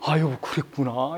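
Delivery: slow, soft, low and heartfelt; a calm, genuine "I see, dear"; sincere empathy. Shown as a demonstration. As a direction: say it with real sincerity, gently. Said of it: "이렇게 진정돼".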